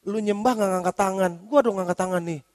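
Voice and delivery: a lightly voiced smug believer sneering; smug put-down. Pastor imitating a smug churchgoer belittling another, mild sneer. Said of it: "dengan bilang gini".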